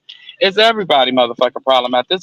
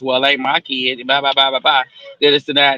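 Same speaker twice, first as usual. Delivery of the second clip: dismissive; 4 semitones lower than usual. Retold or imitated. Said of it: "grandmas and aunties and uncles say this".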